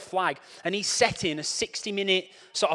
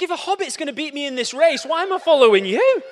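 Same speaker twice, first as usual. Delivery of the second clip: mock exasperation; 8 semitones higher, 9 dB louder than usual. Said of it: "I was like".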